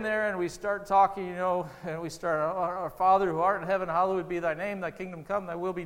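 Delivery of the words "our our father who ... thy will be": King James prayer. Retold or imitated. Preacher showing how people pray the formal Lord's Prayer, recited formally. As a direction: recite it like a rote church prayer. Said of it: "we do it in King James".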